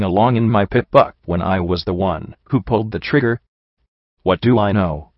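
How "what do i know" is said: mildly snapped retort; a touch of irritation; snapping back. A narrator's reading. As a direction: snap back with restrained annoyance. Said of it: "I snapped back at him".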